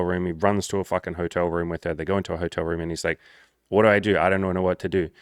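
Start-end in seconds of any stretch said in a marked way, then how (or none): 3.7-5.1 louder mock panic, imitating a nervous guy; panicked. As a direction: blurt it out like you're suddenly in over your head. Panicked friend in hotel room.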